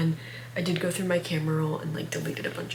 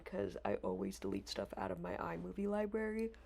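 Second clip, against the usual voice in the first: talking through a yawn; words stretched by a yawn; 10 dB quieter than usual. Real, not acted. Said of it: "Excuse me, I'm yawning".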